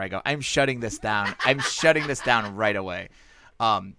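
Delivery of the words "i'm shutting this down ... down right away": slow, a touch louder, deliberate menace; lightly hammed Tarantino tough guy; Tarantino-style. Comic telling a heckling friend off, mock menacing. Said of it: "I went Tarantino on her".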